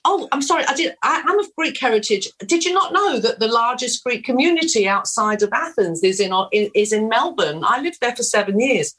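fake Australian accent. Actress lying to casting people, keeping up the fake Australian accent. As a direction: spin a lie in a cheerful put-on Australian accent. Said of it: "is that an authentic Australian accent?".

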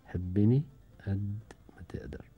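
whispered song title, no voice. Acted. (بصوت هامس)

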